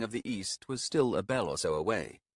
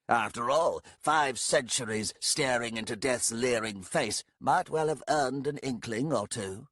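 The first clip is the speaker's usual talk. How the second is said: dry remark; 3 semitones higher than usual. Acted. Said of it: "Gathras observed".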